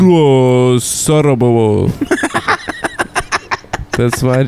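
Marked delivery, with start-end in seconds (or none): 0.0-1.9 fake Japanese gibberish.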